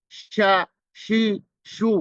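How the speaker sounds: শা শি শু with short clear vowels; shin with vowels. Shown as a demonstration. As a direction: run শা, শি, শু crisply. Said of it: "হরকত দিয়ে পড়বেন".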